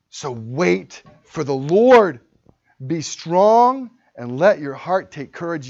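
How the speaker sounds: slow, loud proclamation of the verse; loud slow reading. Shown as a demonstration. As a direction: boom it out slowly to the church.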